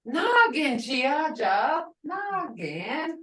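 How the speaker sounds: Nagin chiaja said slowly, rising on nagin; slow careful demo of Nagin chiaja; teacher modeling Nagin chiaja; pronunciation demo. Shown as a demonstration. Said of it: "But if I say".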